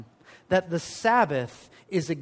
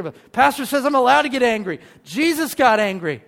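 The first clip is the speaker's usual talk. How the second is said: higher and louder, a playful indignant protest; hammed-up defensive comeback; mock defiant retort; 5 semitones higher, 7 dB louder than usual. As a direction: play the churchgoer hiding behind the pastor's words. Mock churchgoer defends his anger.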